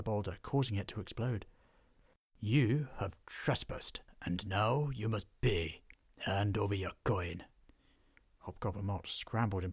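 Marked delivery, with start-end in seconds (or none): 2.4-7.4 slow, heavy menace; slow dwarf threat. Acted. Dwarf demanding coin from trespassers, slow and menacing. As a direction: lay down the law slowly.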